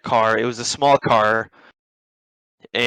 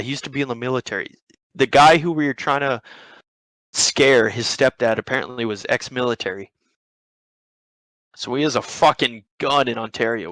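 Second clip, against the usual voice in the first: usual speaking voice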